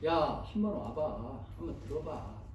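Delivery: slow, acted coaxing invitation; casual invitation. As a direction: invite a friend gently, stretching it out. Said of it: "오늘날로 말하면". (천천히 권하는 말투)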